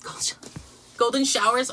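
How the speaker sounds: stunned breathy whisper, voice dropping out; whispered realisation. Real, not acted. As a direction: hush the words in shock. Shocked realisation of a joke.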